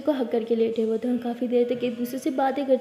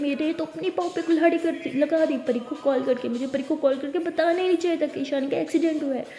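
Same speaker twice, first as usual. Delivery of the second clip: angry ranting; 2 semitones higher than usual. Acted. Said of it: "चिल्लाने लगती है".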